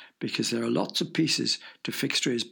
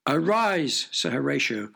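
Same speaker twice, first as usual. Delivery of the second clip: commanding. Acted. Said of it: "ordered the king".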